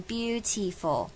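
"beautiful" with a hard aspirated t, the wrong way. Shown as a demonstration. Teacher shows the wrong hard-t "beautiful". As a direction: give "beautiful" a crisp t to show the error. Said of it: "不要念成beautiful".

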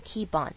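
"keep on" joined as "kee-pon"; "keep on" run together; linked pronunciation. Shown as a demonstration. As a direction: carry the p of "keep" into "on". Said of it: "最后一个连音".

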